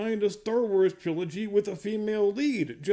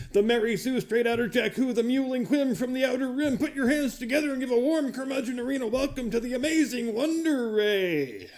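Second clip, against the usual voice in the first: higher-pitched arena hype, last name stretched out long; mock announcer introduction; 4 semitones higher than usual. Host presenting Rey to his arena audience, mock announcer hype. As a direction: build like a ring announcer, drawing out the final name.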